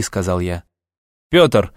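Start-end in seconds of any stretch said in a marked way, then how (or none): 1.3-1.7 raised, higher-pitched call after someone; calling out too loudly. A narrator's reading. Kellas hails Pyotr as he walks out, calling out loudly. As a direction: call the name louder than needed. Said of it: "окликнул меня громче, чем это было нужно".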